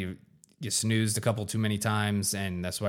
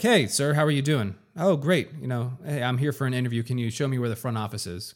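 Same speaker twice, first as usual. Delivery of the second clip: cheerful friendly greeting. Acted. Polite greeting to the janitor.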